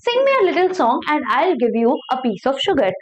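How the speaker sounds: slow, careful read-aloud of a story. Acted. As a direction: read each word slowly for learners. Reading the English story aloud. (धीमी कहानी पढ़ाई)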